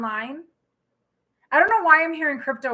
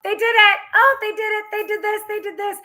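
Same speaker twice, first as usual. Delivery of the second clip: voicing God; 7 semitones higher, 3 dB louder than usual. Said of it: "being like".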